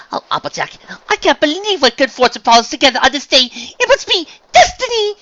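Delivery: loud, building to high squeal; overjoyed gushing. Acted. Unicorn sees her friend as the answer, gushing excitedly.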